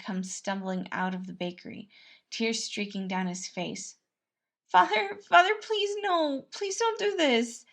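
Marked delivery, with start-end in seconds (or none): 4.7-7.6 high, desperate pleading cry; begging. Acted. Son thrown out, begging his father at the door. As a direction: beg through tears at a locked door. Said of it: "he begged".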